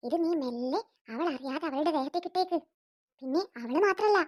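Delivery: sly mother hatching a cruel trick; scheming mother. Acted. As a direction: plot the prank in a low hush. Scheming mother plots prank.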